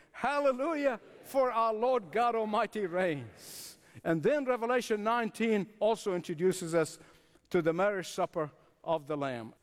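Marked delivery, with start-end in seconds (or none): 0.1-3.8 congregational acclamation. Acted. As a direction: lead the praise, drawing out the final phrase. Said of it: "Say it with me".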